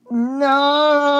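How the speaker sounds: high, loud, long mock shriek; imitated shriek. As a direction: shriek it out like a panicked cartoon engine. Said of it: "shrieked, um, Fergus".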